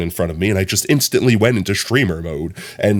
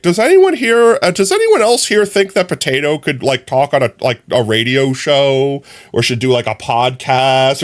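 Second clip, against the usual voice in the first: higher-pitched announcing to a room; mock public call-out; 4 semitones higher, 3 dB louder than usual. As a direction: call out to the crowd as the host. Acted quote of being called out.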